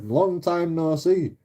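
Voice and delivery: slow, drawn-out cheery hello; mock friendly greeting. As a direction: greet him with fake warmth, slowly. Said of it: "You know".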